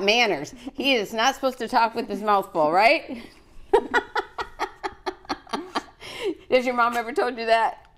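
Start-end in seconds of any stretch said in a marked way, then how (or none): 3.6-6.4 breathy high-pitched laugh. Real, not acted. Laughing at the child's manners.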